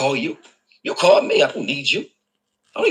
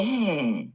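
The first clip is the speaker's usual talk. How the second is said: mock pondering hum; 5 dB quieter than usual. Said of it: "Things that make you go".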